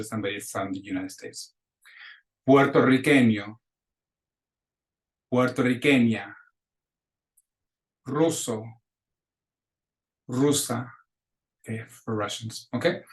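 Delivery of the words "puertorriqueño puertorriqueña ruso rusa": teacher modeling Spanish words; repeat-after-me drill. Shown as a demonstration. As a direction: say each word clearly for a class to echo. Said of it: "clases repitan".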